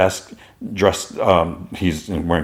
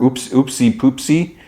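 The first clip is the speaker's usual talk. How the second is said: higher, slow singsong oopsie; silly oops; 6 semitones higher, slower than usual. Acted. Ben smacking his forehead after the slip, silly singsong. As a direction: draw it out high like a goofy slip-up.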